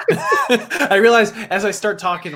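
laughing through the words at his own slip; slow, laughing as he realizes. Real, not acted. Catches his own joke.

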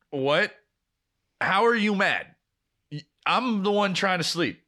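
mildly indignant, pitch jumping up; incredulous protest. Retold or imitated. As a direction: protest as if unfairly accused. Retold quarrel, baffled by her anger.

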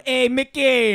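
husband yelling a greeting into the call; yelled greeting. Retold or imitated. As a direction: call out to her on the phone. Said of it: "I'll just yell and I go".

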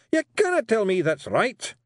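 growling Rob. Acted. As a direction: growl out your disgust at letters. Rob's voice.

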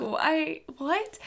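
high-pitched, puzzled little questions; baffled disbelief. Retold or imitated. Re-enacting their baffled reaction.

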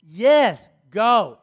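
mock teenage exasperation; exasperated daughter. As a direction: shoo Mom away emphatically. Exasperated daughter answers mom again.

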